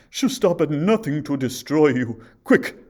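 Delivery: very loud, rising, frantic warning; urgent huntsman. A narrator's reading. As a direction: urge her to flee at once. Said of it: "said the huntsman".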